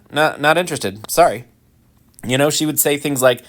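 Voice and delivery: ordinary delivery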